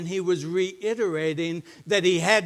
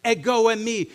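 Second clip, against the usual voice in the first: "Ego eimi" declared louder with weight on "Ego"; emphatic ego eimi; 6 semitones higher, 7 dB louder than usual. Retold or imitated. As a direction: proclaim "Ego eimi" as a divine claim. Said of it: "He said it emphatically".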